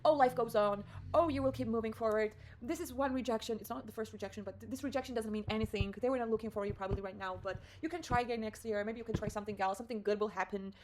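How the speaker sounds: lightly acted self-reassurance, run together; positive pep talk. Pep-talking herself after the rejection, mildly upbeat reassurance. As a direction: give yourself a brisk little pep talk. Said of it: "pep talked myself with these positivity talks".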